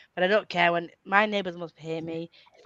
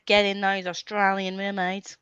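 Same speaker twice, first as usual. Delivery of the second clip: slow, badly faked Australian; hammed-up Australian twang; bad Australian accent; slower than usual. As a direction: have a poor go at an Australian accent. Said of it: "that was a really shit accent".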